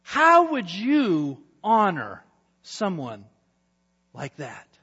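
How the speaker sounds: pleased king asking advice; eager king. Acted. King asking Haman how to honor, lightly voiced.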